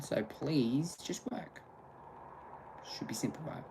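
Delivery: slow unvoiced whisper of a plea. Real, not acted. Streamer whispering a plea to the internet. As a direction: breathe the plea out.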